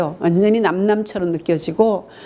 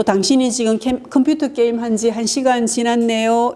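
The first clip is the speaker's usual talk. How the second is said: gentle; 3 semitones higher than usual. Shown as a demonstration. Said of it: "이렇게 하면 돼요".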